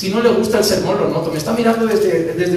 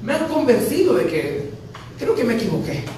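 tearful prayer; 5 semitones higher than usual. Retold or imitated. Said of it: "de noche llorando".

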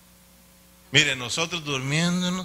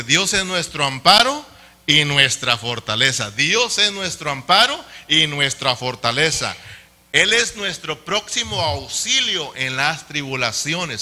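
loud, raised proclamation of a psalm; emphatic scripture reading; 5 dB louder than usual. Real, not acted. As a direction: proclaim the verse forcefully to the congregation. Reads a psalm aloud to congregation.

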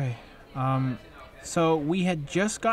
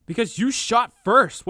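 angry yell; 3 semitones higher, 8 dB louder than usual. Acted. Heated quarrel with partner.

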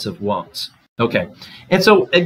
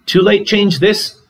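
much higher, slow and louder; shrill; 10 semitones higher, 6 dB louder than usual. A narrator's reading. Mother's shrill retort to her daughter, high, slow and louder. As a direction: pitch it up, slow and sharp. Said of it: "said my mother shrilly".

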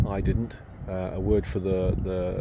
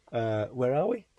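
hushed; 6 dB quieter than usual. Real, not acted. Speaks hushed in the early morning.

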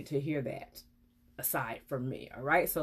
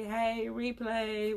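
demo comment; 3 semitones higher, much slower than usual. Shown as a demonstration.

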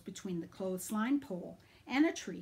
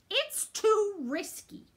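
slow, higher, louder tearful plea; worried mom; 11 semitones higher, 6 dB louder, slower than usual. Acted. Mom refusing son's moon trip, slow tearful plea. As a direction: say it like a teary mother. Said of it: "she'll say, her eyes brimming with tears".

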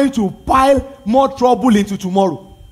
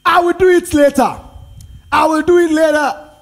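mock procrastinator; 5 semitones higher than usual. Mocking a procrastinator's excuse.

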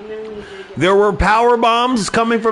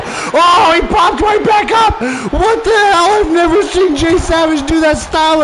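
shocked outcry; 5 semitones higher than usual. Real, not acted. Shocked commentator at a surprise kip-up.

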